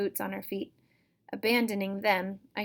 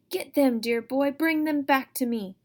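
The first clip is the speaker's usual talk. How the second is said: put-on higher, louder old woman's scream; 6 semitones higher, 7 dB louder than usual. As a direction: shriek an order after the monster. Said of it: "old Auntie screamed".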